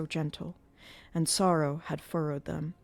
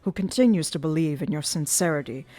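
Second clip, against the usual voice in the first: put-on sulky, resentful young man's accusations; childish hatred. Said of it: "in accents of childish hatred".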